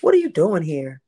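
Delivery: mimicked question with a touch of shock; imitated disdainful cadence. Demonstrating how the young woman asked, mildly disdainful. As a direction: lightly imitate her appalled cadence. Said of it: "This is how she said, this is a cadence".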